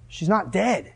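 quiet, matter-of-fact assurance; understated Jesus. Acted. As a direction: state it softly, without pushing. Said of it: "Jesus' words to them are".

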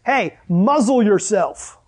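drawn out, slow and pointed; slow mock command. Pastor paraphrasing Jesus to the sea, slow mock command. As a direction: spell out each word slowly. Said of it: "He uses this word that means".

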